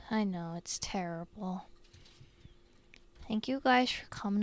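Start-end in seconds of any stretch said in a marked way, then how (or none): 0.1-1.7 whisper. Acted. Teasing viewers about daycare.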